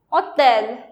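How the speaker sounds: "hotel" as French "ôtel", no H; silent H. Shown as a demonstration. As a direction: start "hotel" straight on the O. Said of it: "don't pronounce H over here".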